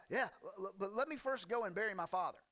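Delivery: stammer, then put the request forward; stalling, tripping over the first words; hesitant excuse. Acted. Man asked to follow Jesus stalls, hesitant.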